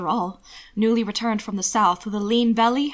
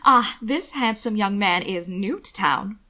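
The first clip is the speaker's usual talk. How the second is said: simpered. Acted. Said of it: "she simpered".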